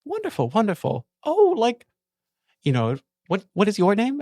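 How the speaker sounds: high, bright-pitched noble officer, pleased; lieutenant character voice. Acted. The lieutenant to the guard, high and gracious.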